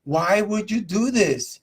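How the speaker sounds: mock bewilderment, drawn out; dumbfounded. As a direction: act out a stunned, puzzled question. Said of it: "like, dumbfounded, trying to figure out".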